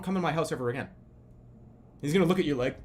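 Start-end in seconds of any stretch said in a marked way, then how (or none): 0.0-0.9 mock angry. Kicking out the dart guy.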